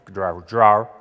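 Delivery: "draw" said in the imitated local way; regional pronunciation. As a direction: mimic how they say "draw". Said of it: "They say draw".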